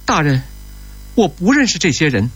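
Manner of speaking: high-pitched, urgent appeal for rescue; distressed plea. A narrator's reading. Abducted woman appealing to an official, distressed plea.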